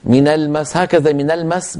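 quick من المس with a single light s closing المس; wrong unstressed stop. Shown as a demonstration. Teacher shows readers what is not valid, unstressed المس. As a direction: toss off المس without pressing its seen. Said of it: "ما يصح".

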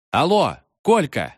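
frightened wail. A narrator's reading. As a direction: call out in fright across the distance. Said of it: "испуганно вопил чайник". (испуганно вопит)

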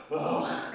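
breathy annoyed ugh. Retold or imitated. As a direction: scoff at the customer. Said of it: "I heard her go like this".

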